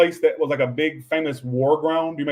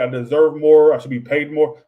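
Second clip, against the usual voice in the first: a loud, firm demand for more pay; 7 dB louder than usual. Pretend. Worker telling the boss they deserve more pay, loud and firm. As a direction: put your foot down and claim what you're owed. Putting your foot down at work.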